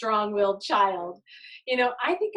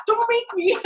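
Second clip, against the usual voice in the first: a hammed-up stern order, higher and louder with laughter; nursery worker mock-scolds a toddler, laughing; mock stern command; 12 semitones higher, 5 dB louder than usual. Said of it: "and you're like".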